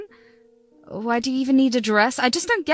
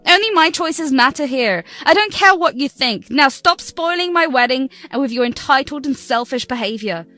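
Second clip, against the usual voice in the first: self-centred rant; 2 semitones higher than usual. Acted. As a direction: make it all about yourself. Bride ranting it's about her.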